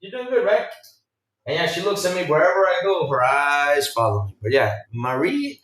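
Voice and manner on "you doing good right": sweet-talking the painting. Retold or imitated. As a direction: coo at the portrait so she stays friendly. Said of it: "be like".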